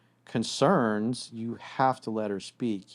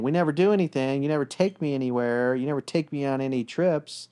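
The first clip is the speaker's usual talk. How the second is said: put-on complaining girlfriend; 4 semitones higher than usual. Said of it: "when one was complaining".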